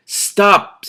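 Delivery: loud, high sharp command; commanding ogre. Acted. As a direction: bark the order at the brawlers. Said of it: "Sief commanded".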